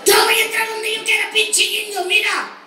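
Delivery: lightly voiced bully; high mock arrogance. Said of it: "me dijo".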